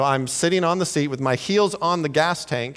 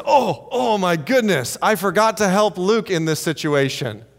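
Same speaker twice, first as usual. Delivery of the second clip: higher, startled pretend panic; mock alarmed realization; 3 semitones higher than usual. Preacher jokes that God never wakes forgetful, mock flustered gasp. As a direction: play someone jerking awake to a forgotten duty.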